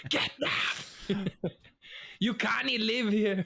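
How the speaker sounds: high mock Scottish villager shout; hammy Scottish accent, angry townsfolk. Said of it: "That wasn't a bad Scottish accent".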